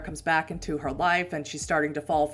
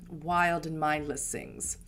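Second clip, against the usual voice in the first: whisper; 4 dB quieter, slower than usual. Acted. GM reading creepy line.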